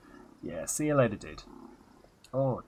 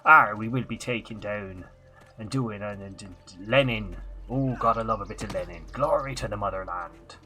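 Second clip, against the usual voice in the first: put-on Transylvanian pirate accent. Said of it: "Transylvania entered the chat".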